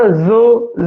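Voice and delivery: ਜ਼ੋ with a buzzing z, repeated; sound demo. Shown as a demonstration. Teacher demonstrating ਜ਼ੋ for students. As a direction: buzz the ਜ਼ in ਜ਼ੋ. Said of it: "ਜ਼ੋ ਦਾ ਉਚਾਰਨ ਕਰੀਏ".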